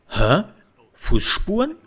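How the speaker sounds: mocking a lisping voice actor; lisping guard. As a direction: hit the S's of Fußspuren with a lisp. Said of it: "the voice actor in the German version had a lisp".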